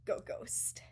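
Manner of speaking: secretive whisper. Real, not acted. Dreaming of vanishing online, whispered. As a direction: let it slip out as a hush. Wistful aside about vanishing.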